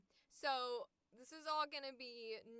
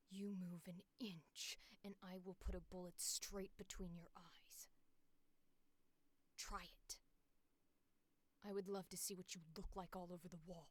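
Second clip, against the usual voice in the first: hushed, lower, near-whispered menace; quiet cold threat; 5 semitones lower, 9 dB quieter than usual. Acted. Gunwoman daring the enemy to move an inch, quietly cold. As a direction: hold still and threaten under the breath. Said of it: "when you got that quiet".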